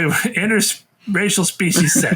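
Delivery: laughing through the words. Real, not acted. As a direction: giggle out the phrase. Laughing repeat of phrase.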